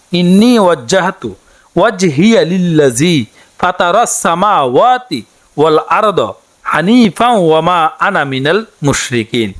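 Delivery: slow, measured Arabic recitation, each word clear; careful recitation. Shown as a demonstration. Teacher showing women the prayer words, slow careful recitation. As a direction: recite it slowly so learners can copy. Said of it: "বাংলাতে উচ্চারণটি আপনি এভাবে করবেন".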